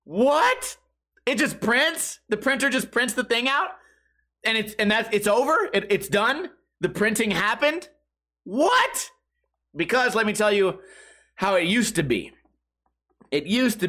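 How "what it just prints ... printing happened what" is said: rising, incredulous questions, pitch higher; amazed disbelief. Retold or imitated. Telling viewers about the new printer, mock astonished disbelief. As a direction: act stunned that the printer simply works. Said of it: "And I said".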